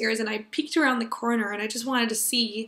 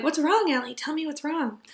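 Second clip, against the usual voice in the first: put-on higher-pitched, mildly worried babysitter asking; gently concerned; 4 semitones higher than usual. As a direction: lift the voice, coax a crying toddler. Soothing a crying toddler, retold.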